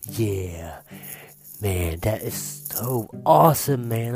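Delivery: slow, deep, spaced-out stoner; low dazed stoner. Retold or imitated. Chaz dazed after song.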